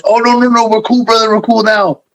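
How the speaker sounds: high-pitched wrestler reassurance; Savage. Retold or imitated. Wrestler calming a worried colleague in catering, high mock reassurance. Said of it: "and he sees Savage".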